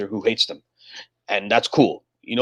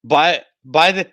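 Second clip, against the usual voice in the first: high giggling call, louder; laughing slogan; 5 semitones higher, 4 dB louder than usual. Pretend. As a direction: cheer it through a laugh.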